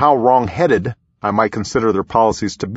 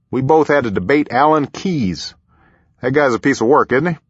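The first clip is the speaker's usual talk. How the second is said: higher, folksy president swapping a wry aside; President Bush; 4 semitones higher than usual. A narrator's reading. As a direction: share common ground in a chummy character voice.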